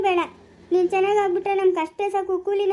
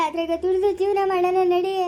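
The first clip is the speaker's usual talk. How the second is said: a plea with tears coming through; tearful plea. Acted. Mother urging her son toward a simple life, tearfully. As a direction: cry through the words.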